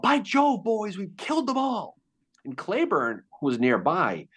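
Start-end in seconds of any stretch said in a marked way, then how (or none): 0.0-2.0 high, excited mock cheer; excited yell. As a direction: shout it out like a thrilled private. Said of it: "and he yelled".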